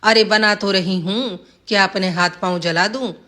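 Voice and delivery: staged snappy retort. Acted. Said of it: "हीरा देई ने तरकीब के मुताबिक कहा".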